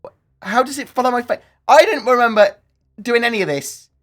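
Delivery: high squeaky voice changer. Real, not acted. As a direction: chipmunk filter voice. Face filter donation changes his voice.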